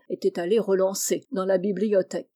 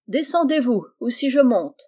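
higher and louder, a hammed-up ogre's challenge; mock Bluebeard threat; 3 semitones higher, 5 dB louder than usual. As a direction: boom it down the stairs like a playful Bluebeard. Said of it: "en imitation de Barbe-Bleue". (imitation moqueuse de Barbe-Bleue, plus forte)

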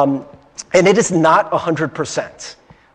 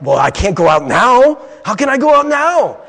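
louder whine climbing higher; acted complaint, rising into exasperation; helpless protest; 3 semitones higher, 5 dB louder than usual. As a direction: plead that it's hopeless, pitch climbing. Isolated person protests going out.

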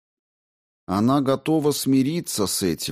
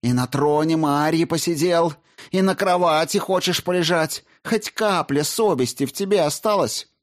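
high, raised angry voice; furious accusation; 10 semitones higher, 3 dB louder than usual. A narrator's reading. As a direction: tear into him with contempt. Olga accuses Solovey furiously.

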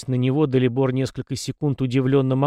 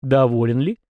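grim irony. A narrator's reading. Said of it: "с мрачной иронией поинтересовался".

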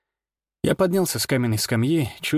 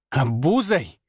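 прошипела; 2 semitones higher, slower than usual. A narrator's reading. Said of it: "прошипела она".

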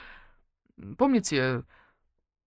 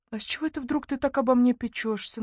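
higher, guarded question; wary suspicion; 7 semitones higher than usual. Acted. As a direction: ask warily. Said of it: "насторожилась я". (настороженно)

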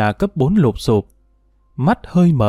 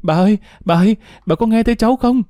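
high, pleading call to grandma; acted desperate boy's cry; calling repeatedly; 9 semitones higher, faster than usual. A narrator's reading. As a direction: keep calling her, pitch climbing. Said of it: "gọi liên hồi".

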